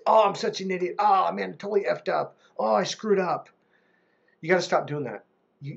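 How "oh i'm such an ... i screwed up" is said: pitched-up mock self-berating; lightly hammed-up frustration; self-scolding guy. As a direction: imitate a man kicking himself over a mistake. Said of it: "They'll say".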